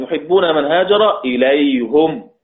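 إليهم recited as "ilayhum"; Hamza's damma reading. Shown as a demonstration. Teacher quoting a verse in Hamza's reading, إليهم as "ilayhum". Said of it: "إلا حمزة قرأها بالضم".

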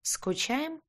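hollow, muffled and high, from inside a helmet; booming from a helmet. Acted. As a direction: speak as if through a visor. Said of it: "гулко спросили из-под шлема".

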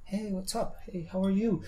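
high excited hey; excited greeting. Shown as a demonstration. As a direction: greet your travel friends with excitement. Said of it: "imagínate que estás muy emocionada".

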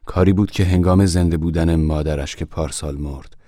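ordinary delivery, nothing marked

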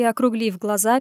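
usual speaking voice

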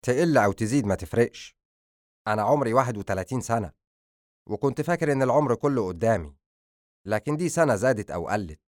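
mildly angry, bitter protest; understated anger, quickening in places. Acted. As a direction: throw it back at her with some anger. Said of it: "تحرك أدهم باتجاهها بغضب وقال".

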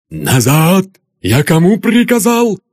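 loud, high angry order; father's furious command. Acted. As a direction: bark at her to come back. Enraged father commands daughter.

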